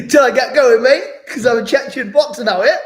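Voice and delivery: words said through high laughter; laughing. Real, not acted. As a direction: laugh while joking about fighting. Laughing at own joke.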